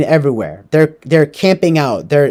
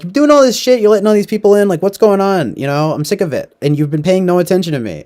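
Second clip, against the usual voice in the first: confronting; 4 semitones higher than usual. Retold or imitated. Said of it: "she finally confronts the husband".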